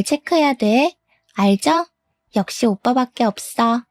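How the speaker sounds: put-on young mistress cooing over a recorder playback; recorded voice played back. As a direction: playback of a clingy young woman, a bit muffled. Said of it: "녹음기를 틀어서 그간 둘이 했던 대화를 들려줬어요".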